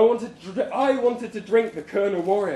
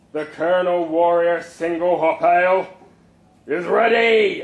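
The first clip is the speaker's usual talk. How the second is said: loud, proud proclamation; loud announcement; 6 dB louder than usual. Acted. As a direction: announce it to a packed room. Boss announces ale to crowd.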